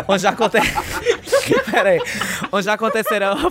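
laughing through the line; cracking up while reading; stifled giggles. Real, not acted. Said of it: "para de rir, gente".

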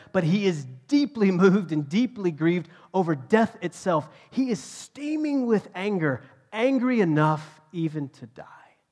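loud, high preacher's crescendo; impassioned preaching. Real, not acted. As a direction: drive it to a peak, stretching the key words. Preacher building to Jesus' anger.

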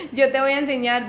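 eager offer to help. Retold or imitated. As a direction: jump in keen to teach her. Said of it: "Y yo como que".

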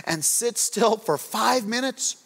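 mild mock parent pleading for five minutes; exasperated parent. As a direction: plead slowly with the restless kids. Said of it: "sometimes I'll just say to them".

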